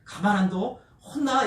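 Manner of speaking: mild mock threat, rising at the end; lightly acted scolding warning; retold threat. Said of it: "엄포를 놨어요".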